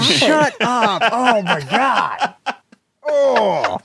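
laughing through the words; gasping with laughter. Real, not acted. Laughing hard at a joke.

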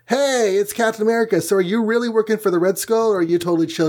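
high-pitched, hurried mock enthusiasm; excited greeting. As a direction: play an eager caller, voice way up. Team greeting Captain America on call.

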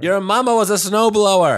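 a loud, lightly voiced movie robot; loud robot impression; Johnny Five voice. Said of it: "what does Johnny Five say".

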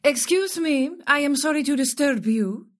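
put-on firmer Spanish-accented call for attention; crisp Spanish accent. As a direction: speak up to get noticed, Spanish accent. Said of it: "speaks with a crisp Spanish accent".

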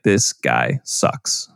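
very low, slow and soft put-on voice; mock dumb voice. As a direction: drag it out like a dopey bro. Mock voice for the movie's stance.

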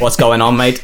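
loud mock-Scottish greeting; rough stab at Scottish; attempted Scottish accent. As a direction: play a chummy Scottish call-centre woman. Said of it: "Scottish woman in a call centre".

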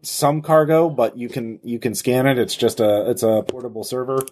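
a jittery runaway insisting on innocence; anxious fugitive voice. Acted. GM voices Dash reassuring the crew.

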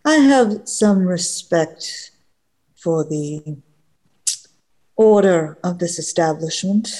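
a haughty knight promising violence; understated cold menace; proud paladin, menacing. Acted. GM holds the paladin's voice.

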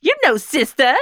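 high put-on Filipino accent; mock Filipino accent. Co-host explaining filler word, mock Filipino accent. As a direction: pitch it up into a playful Filipino accent. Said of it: "Say it with a Filipino accent".

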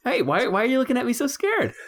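high-pitched mock bewilderment; mock puzzled innocence. Mocking the film character's puzzled reply.

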